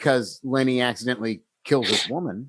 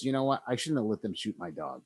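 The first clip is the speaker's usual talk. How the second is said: put-on regretful old man; 3 semitones lower, 9 dB quieter, faster than usual. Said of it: "he just stops and he says".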